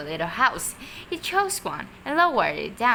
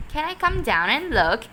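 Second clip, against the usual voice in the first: shouted back; 6 semitones higher, 6 dB louder than usual. A narrator's reading. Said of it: "Mister Hoppy shouted back".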